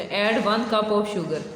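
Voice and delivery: very slow, word by word English reading; slow reading aloud. Shown as a demonstration. Teacher reading the story line slowly to pupils. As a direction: read it out slowly for the class.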